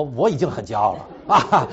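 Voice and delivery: indignant retort. Retold or imitated. Husband re-enacting his angry retort to his wife, laughing. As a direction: bristle at the charge, half laughing. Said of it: "所以就发脾气了".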